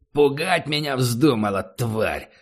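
angry. Acted. Barry kicks and threatens prisoner.

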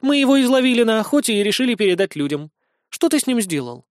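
sweetly innocent. Acted. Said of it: "она невинным тоном продолжила".

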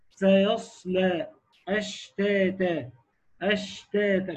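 drawn-out airy ص in سيصلى and spreading ش in أشتاتا; slow, let breath run on the ص and ش of سيصلى، أشتاتا; demonstrating hams. Shown as a demonstration. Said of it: "فيها همس وفيها تفشي". (إظهار الهمس والتفشي في سيصلى وأشتاتا)

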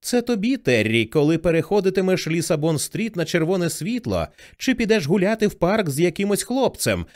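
put-on high, breaking voice of an uncertain teenage boy. Dead brother's voice speaks to sister Terri through Johnny, high and breaking. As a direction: speak as a nervous adolescent, voice cracking upward. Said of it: "високий, ламкий і непевний голос підлітка".

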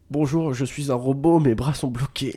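slow stiff robot voice, lightly done. Pretend. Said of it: "t'es en mode". (voix de robot légère)

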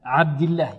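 عبد الله with kasra and thin l; light lam. Shown as a demonstration. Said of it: "وإذا كسرت ماذا تقول؟". (ترقيق لام عبد الله)

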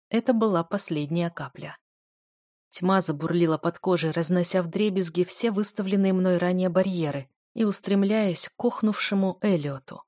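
plain reading voice

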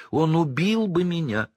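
a cornered coward squealing; frightened Pettigrew. Acted. Pettigrew pleads.

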